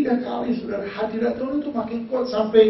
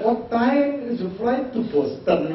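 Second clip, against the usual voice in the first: put-on cowboy accent; 4 semitones higher, slower than usual. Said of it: "saya cuma bisa ingat".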